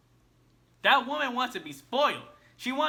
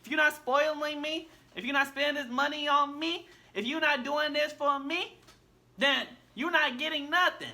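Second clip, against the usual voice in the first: lightly voiced entitled girlfriend, a bit higher; mocking demanding woman; 4 semitones higher than usual. Man mocking what modern women sound like, lightly higher entitled voice. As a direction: mimic her spoiled demands with a sneer. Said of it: "It sound like".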